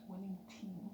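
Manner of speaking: soft unvoiced whisper of "Winning team"; whispered echo. Real, not acted. Whispered repeat of affirmation.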